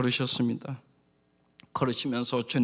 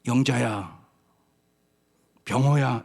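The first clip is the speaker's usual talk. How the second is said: personal calling by name; 4 semitones lower, 3 dB louder than usual. Shown as a demonstration. Pastor showing how to read the call as your own name, personal and direct. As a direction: call each name as if Jesus speaks to you. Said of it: "이렇게 읽어야 되는 겁니다".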